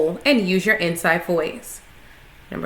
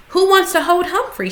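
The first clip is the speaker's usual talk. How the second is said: teacher asking brightly; 9 semitones higher than usual. A narrator's reading. Teacher asks the class.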